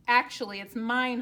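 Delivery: the goose loudly overruling the duck; honked claim. A narrator's reading. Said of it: "honked Goose".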